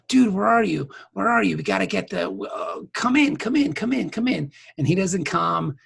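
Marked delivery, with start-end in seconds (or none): 0.1-4.5 slightly higher, hurried radio hail; mock urgent call. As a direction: call out repeatedly for a missing partner. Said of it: "Kira's making the call".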